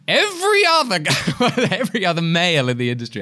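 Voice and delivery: high-pitched American agent punchline; hammed-up American agent voice. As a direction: blurt it out in an American accent. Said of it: "fantastic impression of your American agent".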